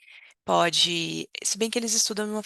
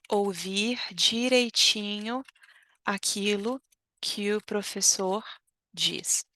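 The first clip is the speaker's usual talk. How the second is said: slow model phrase; slower than usual. Shown as a demonstration. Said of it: "ouve direitinho".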